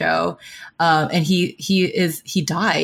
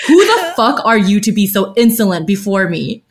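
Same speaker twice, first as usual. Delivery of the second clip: retold menace; 4 dB louder than usual. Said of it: "and says".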